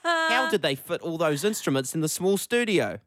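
light Kiwi accent, imitating dad; a hint of a New Zealand dad. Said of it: "That was my, my New Zealand accent".

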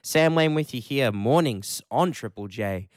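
ordinary talk

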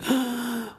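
a sharp, high little gasp of wonder; awed gasp. Retold or imitated. Neighbour girl gasps at the ant houses, high and amazed.

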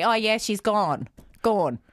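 gone still as rounded /kɔn/; slipping gone. Shown as a demonstration. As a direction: gone slips into the aw vowel. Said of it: "forgive me if I say".

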